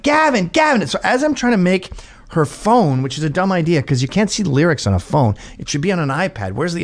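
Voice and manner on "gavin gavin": high shrill-pitched mock call of the name; a drunk guest calling the host. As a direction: call him over and over, hammed up. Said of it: "they're like".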